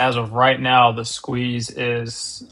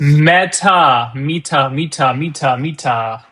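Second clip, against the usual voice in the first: excited calling; 2 semitones higher, 8 dB louder than usual. Real, not acted. Calling out a breaking stock.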